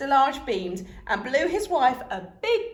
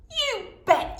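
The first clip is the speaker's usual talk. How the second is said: high eager yell; 12 semitones higher, 4 dB louder than usual. A narrator's reading. Boy answering dad, loud eager yell. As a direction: shout it like an excited boy. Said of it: "yelled Lester".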